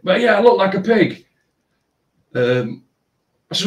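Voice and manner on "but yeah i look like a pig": mocking the girl. Mimics girl's complaint.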